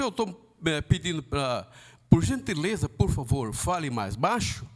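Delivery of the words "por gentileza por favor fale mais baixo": calm polite request. Shown as a demonstration. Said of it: "com calma".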